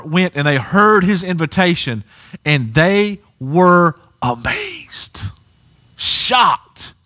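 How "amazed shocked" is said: emphatic shout. Real, not acted. Awe at Jesus' authority.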